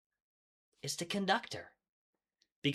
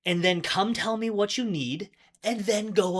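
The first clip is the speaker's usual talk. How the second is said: laughing; 7 semitones higher, 4 dB louder than usual. Retold or imitated. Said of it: "And then she laughs and she goes".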